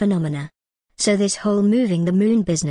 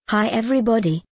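lightly voiced cartoon doctor greeting; a first, restrained try at a cartoon doctor; Doctor Nick; 2 semitones higher than usual. Showing viewers an impersonation of a cartoon doctor, lightly done. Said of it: "let's get to the impersonation".

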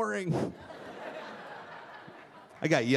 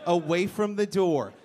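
mocking echo; slower than usual. Mocking her request.

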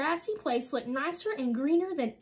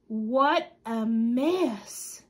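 slow dismayed Papa; 3 semitones lower, much slower than usual. Acted. Papa voiced in story.

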